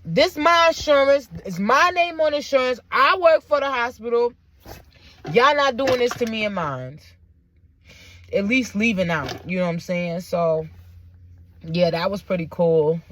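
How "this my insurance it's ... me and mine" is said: protective father. Retold or imitated. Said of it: "him being there is like".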